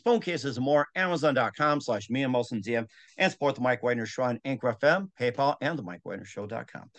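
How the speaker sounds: brisk sponsor-plug delivery; podcast plug read. Acted. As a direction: rattle off the merch list like an ad. Host reads sponsor plug.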